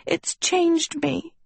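very high, slow tearful wail; distressed, drawn-out high voice; sobbing. A narrator's reading. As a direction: wail it out slowly. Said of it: "she sobbed".

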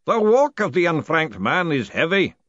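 loud, solemn ritual pronouncement; booming, intoned. A narrator's reading. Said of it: "the booming voice intoned".

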